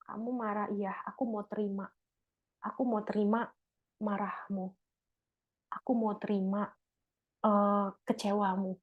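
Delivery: quiet, gentle acceptance; soft accepting reply. Shown as a demonstration. Husband quietly accepting his angry wife, gentle and soft. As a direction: softly take in her anger. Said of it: "coba diulang".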